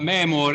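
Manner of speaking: "memore" ending on a closed E; closed final E. Shown as a demonstration. Teacher pointing out the ending, closed final E in "memore". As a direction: finish "memore" with a closed "ay" vowel. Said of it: "is closed at the end".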